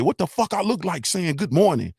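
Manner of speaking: high-pitched mimicry of a brash New York rapper; Scarlett impression. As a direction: imitate a young woman's confrontational opening line. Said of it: "young lady talking like this".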